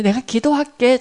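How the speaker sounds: 믿음 없이 대충 하는 약속; 마지못해 던지듯 말하기. Retold or imitated. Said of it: "잘 믿지도 않으면서". (건성으로 "기도할게")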